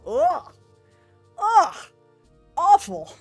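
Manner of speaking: hammed-up groans of disgust; exaggerated ugh, awful; mock disgust. Reacting to grinding complaint.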